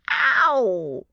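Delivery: high pained yelp; fire demon cry. A narrator's reading. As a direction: yelp as the flame hits. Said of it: "said Calcifer from under his logs".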